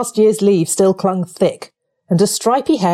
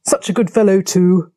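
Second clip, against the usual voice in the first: musing, understated remark; reflective. A narrator's reading. Otter musing on his friend Toad, reflectively. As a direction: say it as if thinking aloud. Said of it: "remarked the otter reflectively".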